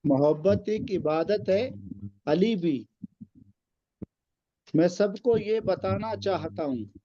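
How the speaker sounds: slow, measured verse recital; poem recitation. Acted. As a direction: recite the couplet with weight. Recites ghazal couplet.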